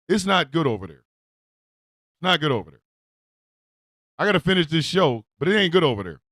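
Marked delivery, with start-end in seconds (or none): 1.0-2.8 slow and low, drawn out like a grim warning; slow low foreboding repeat; ominous warning. Acted. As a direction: let it hang, slow and heavy. Repeats warning line twice.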